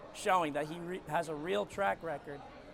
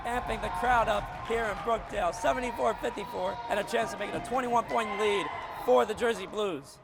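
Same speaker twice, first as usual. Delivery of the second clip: excited call; 4 semitones higher, 5 dB louder than usual. Real, not acted. Calling the crowd-amping dunk.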